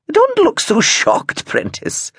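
a lightly voiced amused grandmother; teasing Gran. A narrator's reading. Gran teasing shocked Prentice, slow and high.

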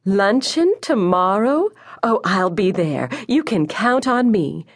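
high, delighted phone chirp; happy chirping. A narrator's reading. Mother accepting a luncheon invitation, happy chirping. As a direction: gush with delight, pitch leaping up. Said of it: "She chirped happily".

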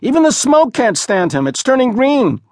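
put-on a high jeering street kid; mocking boy. A narrator's reading. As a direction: crow over the stink. Boy mocks the smell.

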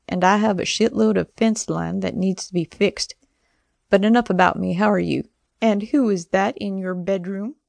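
a hint of a gruff, fond dad; Dad's voice. Dad's voice on tablet.

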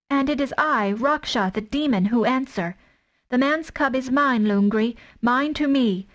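a mother wolf daring a tiger to come in; fierce she-wolf. Acted. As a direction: stand over your cubs and defy the tiger.

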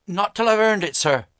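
put-on high, firm boy's refusal; proud poor boy. A narrator's reading. Boy refuses early pay from the master, high firm boy voice.

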